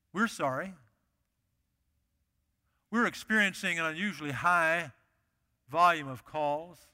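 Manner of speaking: flat recorded hold message; automated phone message. Retold or imitated. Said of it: "automated voice that says something like this".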